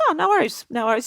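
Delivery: lightly voiced breezy star with a high Oh; lightly imitated star waving off an apology; Travolta, easygoing. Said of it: "He goes".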